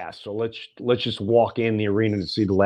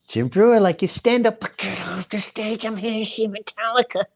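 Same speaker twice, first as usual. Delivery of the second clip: higher, dismissive fan voice; impatient metal fan; 9 semitones higher than usual. Retold or imitated. Metal fan telling the comic to leave, dismissive and higher. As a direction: brush the comic off like a bored fan. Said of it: "the fans gonna be like".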